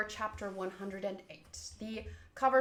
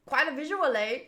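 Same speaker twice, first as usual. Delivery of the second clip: Canadian accent; 2 semitones higher, 3 dB louder than usual. Real, not acted. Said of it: "Why did that sound like I was Canadian".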